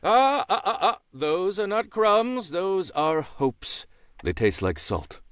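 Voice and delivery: a dry, knowing crow voice; wise crow voice. Acted. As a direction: play a smug old crow. Crow character.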